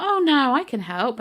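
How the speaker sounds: high, loud, overeager helper; mock eager cashier. Checkout man insisting on helping, mock eager. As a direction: imitate a pushy cashier.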